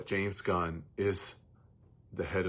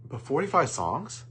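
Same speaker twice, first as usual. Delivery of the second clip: higher, louder, drawn-out disbelief; incredulous; 6 semitones higher, 5 dB louder than usual. Real, not acted. Reviewer baffled that they brought forty-five songs, incredulous. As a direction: stretch it out like you can't believe it. Incredulous rant about song list.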